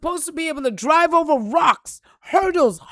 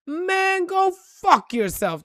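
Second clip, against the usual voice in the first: dismissive retort; 5 semitones higher, slower than usual. Retold or imitated. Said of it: "That was my response".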